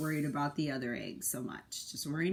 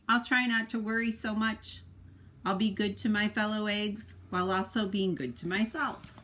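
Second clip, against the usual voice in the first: expressive picture-book narration; reading to children; 3 dB louder than usual. A narrator's reading. Parent reading the egg's story to a child, expressive narration. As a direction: tell it to a little one, with feeling.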